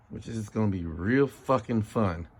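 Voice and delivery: slow, dry sarcasm; deadpan mock anticipation; sarcastic. Real, not acted. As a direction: drag it out, dreading the job. Sarcasm about dreaded repair job.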